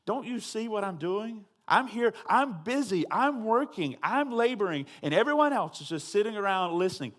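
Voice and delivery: frustrated complaint. Retold or imitated. Martha complaining to Jesus about her sister, frustrated. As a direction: push it out like a busy host at the end of her rope. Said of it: "you can hear the frustration in her voice".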